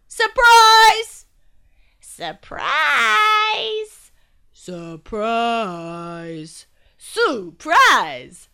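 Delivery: loud excited cries of surprise; chorus of surprise. Acted. Friends jumping out at Glum, shouting excitedly. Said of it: "came a chorus of voices".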